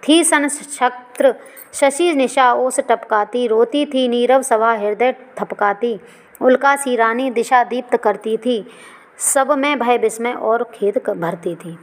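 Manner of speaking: slow, drawn-out verse recitation; poem recitation. Acted. Teacher reciting verse to students, slow and drawn out. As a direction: let each line of verse unfold slowly.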